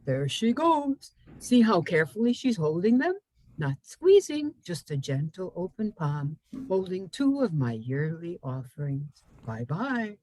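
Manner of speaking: lightly voiced tree watching someone leave; lilting, swooping poem reading; poem's tree voice.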